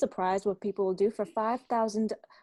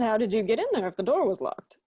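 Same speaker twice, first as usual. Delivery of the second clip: repeated louder and quicker, pressing the point; impatient repeat; 5 dB louder, faster than usual. Acted. Captain repeats his question to Wally, louder and impatient. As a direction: say it again, harder, he didn't listen. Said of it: "I said".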